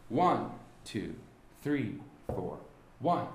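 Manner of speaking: steady count with "One" strongest; secondary accent on three. Shown as a demonstration. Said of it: "you will have a secondary accent as your third beat".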